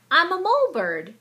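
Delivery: high, loud crowing boast; proud crow. A narrator's reading. Mole boasting to Mouse, high proud crow. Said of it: "he crowed".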